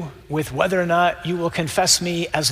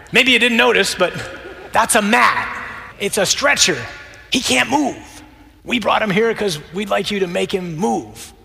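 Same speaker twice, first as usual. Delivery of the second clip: comic pleading friends; 6 semitones higher than usual. Acted. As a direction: spell it out like he's missed the obvious. Friends on roof pleading with Jesus.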